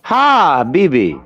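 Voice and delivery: Habibi slow, falling; drawn-out Habibi. Shown as a demonstration. Coaching friends on Habibi, slow drawn-out Habibi. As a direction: stretch Habibi out slowly. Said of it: "I'm serious. I really need y'all to understand this".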